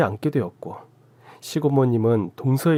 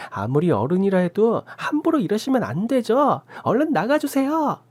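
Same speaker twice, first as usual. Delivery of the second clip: high, sharp indignant protest; defiant talking back; 10 semitones higher than usual. A narrator's reading. Sister-in-law talking back to the aunt during her broadcast. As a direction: snap back at the old aunt. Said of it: "할머니한테 대들기 시작했어요".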